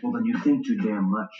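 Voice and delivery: loud, irritated comeback; heated, forceful put-down; angry retort. Acted. Lovers' quarrel, he snaps back.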